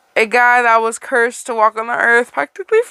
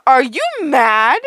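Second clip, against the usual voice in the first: yell; 2 semitones higher, 4 dB louder, slower than usual. Acted. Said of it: "a researcher yelled".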